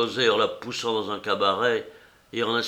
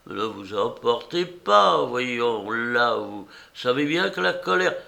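put-on calming old woman. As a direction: settle the hothead down. Old woman soothes José.

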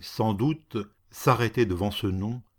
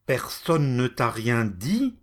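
fierce retort; slower than usual. Acted. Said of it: "riposta le féroce châtelain".

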